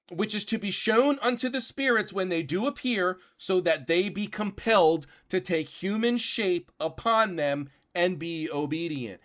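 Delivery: reading aloud. Acted. Rereads passage slowly.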